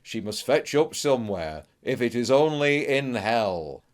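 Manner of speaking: a hint of a weathered seaman's grim remark; gruff-sounding old sailor, lightly done; old salt. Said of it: "in the words of one old salt".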